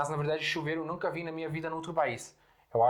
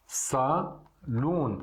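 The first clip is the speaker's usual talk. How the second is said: whispered demonstration. Shown as a demonstration. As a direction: whisper Salon to model it. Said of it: "temos a palavra salon". (Salon sussurrado para mostrar a pronúncia)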